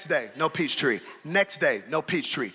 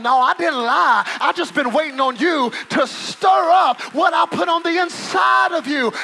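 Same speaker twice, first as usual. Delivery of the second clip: voice of God; 10 semitones higher, 8 dB louder than usual. Acted.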